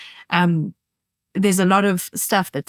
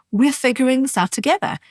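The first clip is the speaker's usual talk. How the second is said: comforting reassurance; 6 semitones higher than usual. Shown as a demonstration. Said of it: "a very comforting phrase to say".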